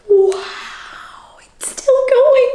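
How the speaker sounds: hushed whisper; awed whisper. Acted. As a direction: whisper in wonder at the tusks.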